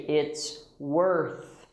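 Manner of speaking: "worth" ending in a clean TH; clear TH. Shown as a demonstration. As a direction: put the tongue out for the TH in "worth". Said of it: "So we say".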